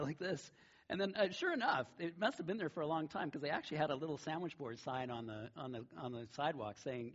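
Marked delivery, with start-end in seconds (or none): none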